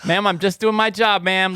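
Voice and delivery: playful put-upon agent; mock phone agent.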